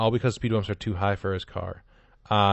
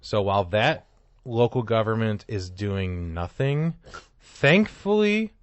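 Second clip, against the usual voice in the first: mock fanfare; 4 dB louder, slower than usual. Co-host announcing the governor's news to his partner, mock grand. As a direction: hype the good news like a herald.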